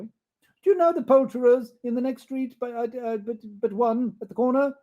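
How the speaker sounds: high, eager question; eager Scrooge. Acted. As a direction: ask the boy eagerly. Scrooge asking boy.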